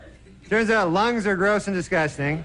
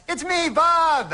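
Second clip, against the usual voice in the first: high, slow, laughing put-on voice; high goofy voice greeting the crowd; goofy character voice; 11 semitones higher, much slower than usual. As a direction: squeak it out as a silly sidekick. Puppet-style act, high put-on voice.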